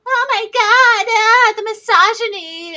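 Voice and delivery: high, loud whiny outrage with a fake cry; hammed-up offended gasp; mock outraged shriek. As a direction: shriek it like a scandalized prude. Mocking an offended listener.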